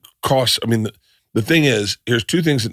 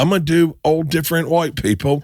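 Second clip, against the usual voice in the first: mocking English accent; 7 semitones higher than usual. Shown as a demonstration. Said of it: "do that accent back to them in a mocking way".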